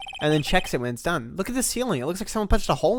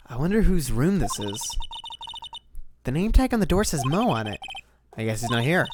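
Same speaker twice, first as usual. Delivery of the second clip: noir detective. Acted. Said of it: "one of my favorite voices to do".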